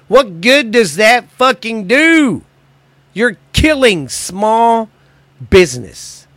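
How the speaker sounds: high, slow, incredulous anger; fed-up rhetorical yell, pitched high; exasperated outburst. Real, not acted. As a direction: demand an answer in disbelief. Angry rant about shutdowns.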